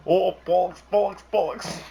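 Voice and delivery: high-pitched panicky mock cursing; Gavin Free. Imagining Gavin as the game's ghost, high mock swearing. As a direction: yelp it high, as a flustered ghost. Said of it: "voice the ghost instead of Peter Dinklage".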